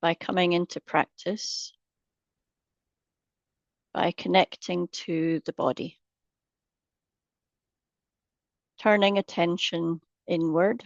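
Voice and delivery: unhurried meditation guide, long pauses between phrases; guided meditation. Acted. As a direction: ease listeners into a body scan, leaving space after each phrase. Leads into the meditation.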